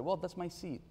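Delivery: mock a seven-year-old claiming her seat; little girl protesting. Niece telling her little brother it's her seat, lightly voiced child. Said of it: "she said".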